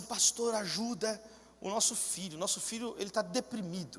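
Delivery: soft, understated imitation of a plea; imitated worried plea. Parents asking pastor to help their depressed son, imitated quiet plea.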